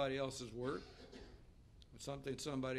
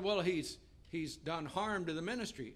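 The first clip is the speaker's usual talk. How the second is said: mildly indignant retold protest, raised voice; 3 semitones higher, 4 dB louder than usual. Pastor across the table justifying his anger, mildly indignant. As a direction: imitate a man pressing his complaint. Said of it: "I'm mad at him".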